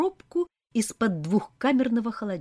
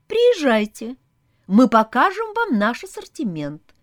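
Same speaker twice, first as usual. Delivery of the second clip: polite; 5 semitones higher, 8 dB louder than usual. Acted. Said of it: "вежливо ответила девушка".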